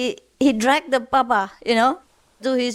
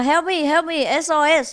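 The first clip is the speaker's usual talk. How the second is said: mock cry for help; 6 semitones higher than usual. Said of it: "he was shouting for help".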